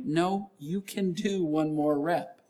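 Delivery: a hint of a firm coach's encouragement; lightly voiced coaching God; spiritual workout partner. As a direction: reassure like a spotter who believes in you. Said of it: "the spiritual workout partner telling you".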